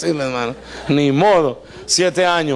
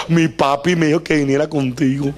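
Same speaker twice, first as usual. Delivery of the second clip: lower, lightly put-on childlike; childish bride voice; 4 semitones lower than usual. Lea telling Jacob her dad sent her, lightly put-on childlike voice. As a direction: say it innocently like a girl.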